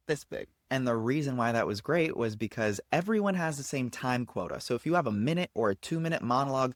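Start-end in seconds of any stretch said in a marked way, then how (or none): 0.1-0.5 soft, tiny-sized delivery; small and quiet. Shown as a demonstration. Coach showing how short the text was, small soft voice. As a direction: shrink the voice to show something little.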